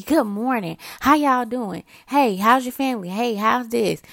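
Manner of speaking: a touch of upbeat office greeting; cheerful greeting. Retold or imitated. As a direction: greet coworkers with light good energy. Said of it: "if I come to work with good energy".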